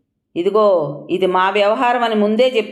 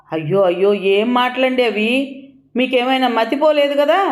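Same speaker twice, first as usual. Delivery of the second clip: holding back tears; 3 semitones higher than usual. Acted. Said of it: "గొంతు పూడుకుపోయి ఏడుపు ఆపుకుంటూ".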